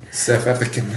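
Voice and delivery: lightly attempted South African accent. Friend imitating the stepson's cool accent, South African accent. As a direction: have a go at a clipped-vowel South African accent. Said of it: "got the coolest freaking accent".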